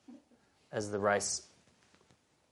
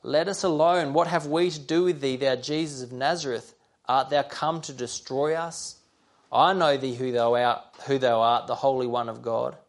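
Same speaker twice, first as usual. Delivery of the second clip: possessed man crying out loud to Jesus; 4 dB louder than usual. Acted. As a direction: cry out against Jesus, raising the voice. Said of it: "cried out with a loud voice".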